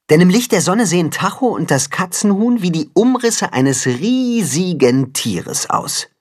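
ordinary delivery

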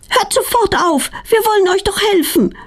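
high, cross scolding of the bees; grumbling scold. A narrator's reading. Petronella scolds the angry bees, high and grumbling. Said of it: "meckert Petronella".

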